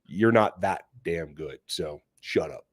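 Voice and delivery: put-on low, gruff old man grumbling; grumpy old man. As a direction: grumble it like a cranky old guy. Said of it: "I sounded like a grumpy old man like I just did".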